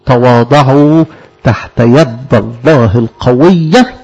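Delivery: slow, measured verse reading; solemn slow scripture recital; scripture recitation. Acted. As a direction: intone the verse slowly like a reading. Quoting St Peter's verse.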